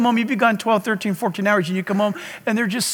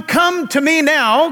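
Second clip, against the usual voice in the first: coaxing call; 4 semitones higher, slower than usual. Retold or imitated. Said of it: "I was asking one".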